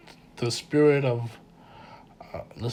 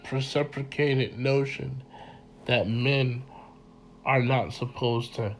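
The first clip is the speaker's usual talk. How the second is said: stuffy, congested voice; blocked nose from a cold. Real, not acted. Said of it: "forgive me if I sound so congested".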